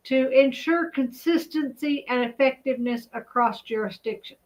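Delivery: yawning while reading aloud. Real, not acted. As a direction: read through a yawn. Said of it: "I do not know why I'm yawning".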